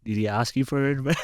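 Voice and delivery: mock-calm retold question; super calm. Friend answers the frustrated gym helper, super calm. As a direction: lightly imitate someone staying very calm. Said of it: "super calm tone".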